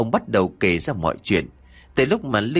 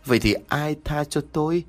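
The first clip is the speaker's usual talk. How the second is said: higher, bitter demand; bitter cry; 5 semitones higher than usual. A narrator's reading. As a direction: ask it with bitter resentment. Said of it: "gào lên từng tiếng". (giọng cao, cay đắng chất vấn)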